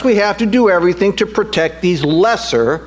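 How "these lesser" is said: "lesser" set apart with emphasis; stress on LESSER. Real, not acted. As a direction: lean firmly on the word "lesser". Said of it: "I emphasize that word lesser".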